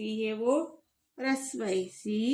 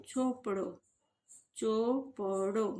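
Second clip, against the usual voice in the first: slow reading; 4 dB quieter, slower than usual. Shown as a demonstration. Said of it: "ऐसे आपको पढ़ना है".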